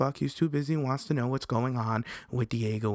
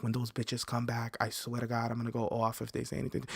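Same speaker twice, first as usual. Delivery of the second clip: softer, fast seething under the breath; fuming alone at the Airbnb, soft rapid muttered vow; muttered threat; 6 dB quieter than usual. Retold or imitated. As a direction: grumble it fast to yourself while rolling up. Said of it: "and I was like".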